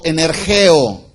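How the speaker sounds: "energeo" dicho tal como suena; pronunciado como suena. Shown as a demonstration. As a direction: pronuncia "energeo" con claridad, como se escribe. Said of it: "así como se oye". (energeo, tal como suena)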